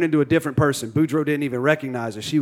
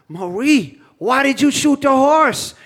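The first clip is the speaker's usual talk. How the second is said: high, loud incredulous question; hammed-up protest, climbing higher as it goes; indignant outcry; 10 semitones higher, 4 dB louder, slower than usual. Groom asks bride about shot horse, high mock outrage.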